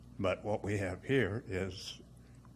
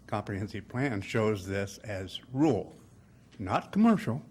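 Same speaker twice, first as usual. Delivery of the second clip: breathless, pausing often between words; short of breath. Real, not acted. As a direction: speak short of breath, gasping between phrases. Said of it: "I'm a little short of breath".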